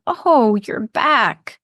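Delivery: sympathetic moan. Acted. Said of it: "they moan".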